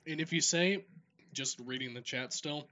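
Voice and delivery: talking around a Tic Tac; slightly choked, something in the throat; choking on a candy. Real, not acted. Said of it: "I'm choking on a Tic Tac".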